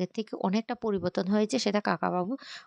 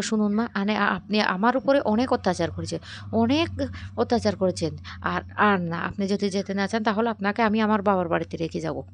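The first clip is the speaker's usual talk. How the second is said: louder, insistent acted complaint; forceful storyteller's reproach; firm confrontation; 4 dB louder than usual. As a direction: push the grievance out loudly. Daughter-in-law confronts mother-in-law.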